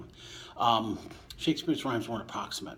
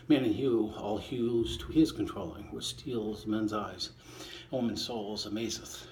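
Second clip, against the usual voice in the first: poem reading. Acted. Reader reciting Shakespeare to listeners, measured poem voice. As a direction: give each line its verse shape. Reading sonnet twenty aloud.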